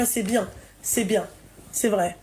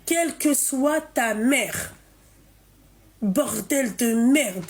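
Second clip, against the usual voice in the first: slow exasperated; slower than usual. Real, not acted. Host furious at caller.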